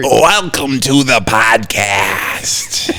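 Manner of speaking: slow, breathy spooky whisper. Acted. Friend asked for a spooky voice, slow hoarse whisper. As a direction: hiss it out like a creature in the dark. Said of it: "What's your spooky voice?".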